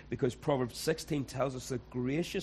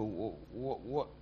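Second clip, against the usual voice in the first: confused and hurt; 3 semitones higher than usual. Retold or imitated. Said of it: "you kinda go".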